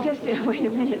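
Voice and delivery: speaking through chattering teeth; cold, teeth chattering while talking. Real, not acted. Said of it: "My teeth are still chattering".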